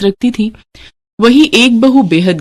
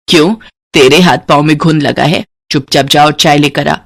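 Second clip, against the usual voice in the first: loud, scornful scolding; scolding mother-in-law; 3 semitones lower, 3 dB louder than usual. Acted. Mother-in-law scolding the daughter-in-law over tea, harsh.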